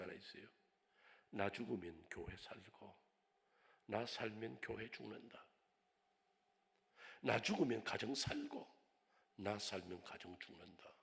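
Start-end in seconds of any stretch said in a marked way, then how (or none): 1.3-10.9 solemn motto. Acted. Reciting his motto.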